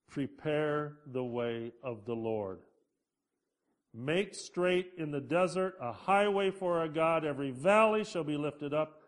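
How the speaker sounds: scripture reading. Acted. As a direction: read it out like a proclamation. Reads Isaiah's prophecy aloud.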